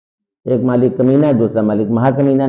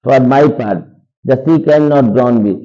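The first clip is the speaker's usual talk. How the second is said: slow, louder recital of the line; slow dramatic reading; 4 dB louder, much slower than usual. Shown as a demonstration. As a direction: read it out like a stage line, slowly. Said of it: "teacher reads text slowly". (धीमा नाटकीय पाठ)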